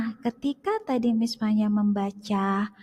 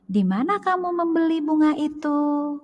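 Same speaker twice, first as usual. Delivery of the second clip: "Di mana kamu membeli bunga itu?" read higher as a clear question, pitch lifting on "kamu"; question intonation; 6 semitones higher than usual. Shown as a demonstration. Teacher demonstrating question intonation to pupils, voice lifting on "kamu". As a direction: ask it like a real question, voice up on "kamu". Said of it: "apakah intonasinya berbeda? Iya".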